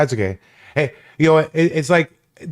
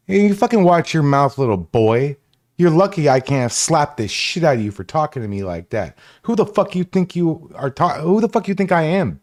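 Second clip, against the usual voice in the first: higher, heated telling-off; angry scolding; 4 semitones higher than usual. Real, not acted. Streamer scolding a returning troll, heated and higher. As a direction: put the troll in his place, hard.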